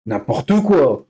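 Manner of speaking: N'importe quoi stretched out slowly, quoi falling; slow exasperated N'importe quoi; slow dismissive drawl. Shown as a demonstration. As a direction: drag out N'importe quoi in disbelief.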